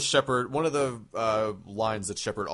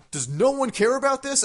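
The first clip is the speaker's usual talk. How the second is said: much higher, louder mock-frantic plea; frantic Tali; 14 semitones higher, 5 dB louder than usual. Tali pleading with the crew, mock-frantic. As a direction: ham up an exasperated alien crewmate. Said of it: "going crazy, being like".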